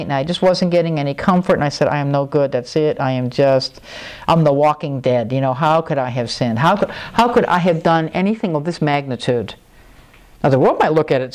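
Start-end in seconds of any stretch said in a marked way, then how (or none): 1.9-9.5 low, dejected self-reproach; mildly despairing inner voice; retold self-condemnation. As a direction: down on yourself, pitched low. Retells his own self-condemning thoughts.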